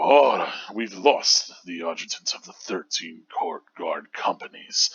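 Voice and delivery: put-on commanding, regal old commander; deep regal voice. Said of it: "I've decided to voice him with this".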